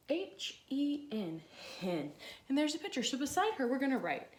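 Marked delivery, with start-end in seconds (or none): 0.1-1.4 spelling slowly. Shown as a demonstration. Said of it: "It says".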